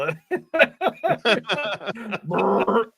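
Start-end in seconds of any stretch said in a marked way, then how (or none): 2.2-2.9 blown-lip fart sound; mock fart noise. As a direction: imitate a rippling fart. Imitating the fart just read about.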